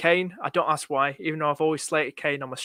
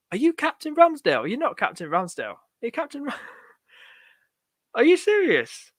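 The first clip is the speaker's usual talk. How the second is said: high, incredulous questions breaking into a laugh; laughing disbelief; 7 semitones higher than usual. Real, not acted. Streamer shocked by a viewer's captain pick, laughing disbelief. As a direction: crack up in real high-pitched disbelief. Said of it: "I'm laughing now".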